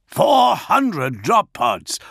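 high, loud, drawn-out alarm; urgent report. A narrator's reading. Augustin reports the incoming drop pods, high and alarmed. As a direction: hammer out each word, high and slow.

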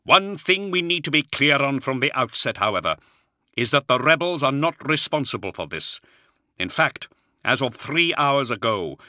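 lightly voiced firm commander; calm authority reassuring the colonel; commanding lord. Commander's voice held by narrator.

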